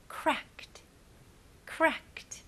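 cracked ending in a very light t sound; cracked with just a soft t added at the end; light final t. Shown as a demonstration. Teacher showing students cracked with a light t. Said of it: "되게 가벼운 T 발음만 붙이시면".

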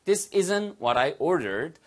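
slow model with "isn't" contracted; slow contracted demo; slow contracted form. Shown as a demonstration. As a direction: say "isn't" as one quick word. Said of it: "됐죠?".

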